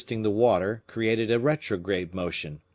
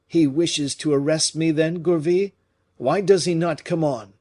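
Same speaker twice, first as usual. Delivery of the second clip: alarmed; 8 semitones higher, 6 dB louder than usual. A narrator's reading. Alarmed question.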